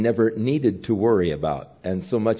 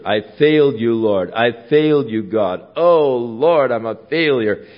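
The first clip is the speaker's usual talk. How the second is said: loud, falling cries of failure; loud grieving confession; anguished lament; 5 dB louder than usual. Acted. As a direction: cry out in despair to the Lord.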